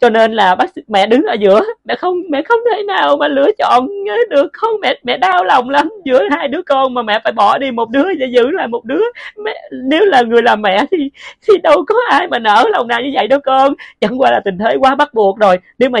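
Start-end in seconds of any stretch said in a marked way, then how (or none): 1.8-13.7 higher, breaking, close to tears; mother begging her dead child to understand; distraught pleading. Acted. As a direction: plead through the guilt.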